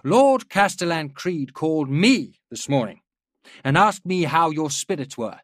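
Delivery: rally the troops with every phrase; rousing speech. A narrator's reading. General rallying his officers.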